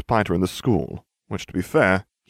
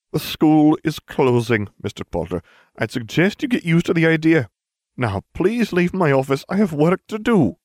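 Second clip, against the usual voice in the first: much higher, louder prim teacher voice; strict old teacher, louder and much higher; stern headmistress; 9 semitones higher, 4 dB louder than usual. A narrator's reading. McGonagall voiced in story.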